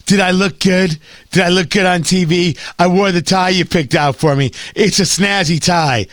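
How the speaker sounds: lightly voiced vain man with a head cold, asking his wife; a hint of a stuffy-nosed fussy husband; Fauci with a head cold. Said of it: "That's my impression of him when he gets home".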